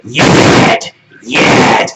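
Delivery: loud mock belting of a word; loud, mocking one-word hook; mock singer. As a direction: belt it out like a bad singer. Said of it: "he's just gonna sing the word".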